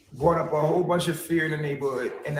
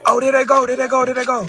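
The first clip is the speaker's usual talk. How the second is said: excited; 7 semitones higher, 8 dB louder, faster than usual. Real, not acted. Spotting police, excited calling out.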